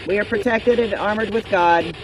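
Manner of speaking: loud, firm banishing command. Real, not acted. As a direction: order the spirits out, firmly. Commanding spirits to leave.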